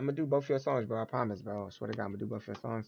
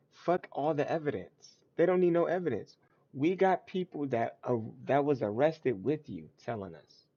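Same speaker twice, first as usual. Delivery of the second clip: lightly acted, insistent prosecutor, pitched up; mock prosecutor; 3 semitones higher than usual. Prosecution telling the defendant the evidence hardly matters, mock insistent. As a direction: argue it like a cocksure prosecutor. Voices the prosecution arguing its case.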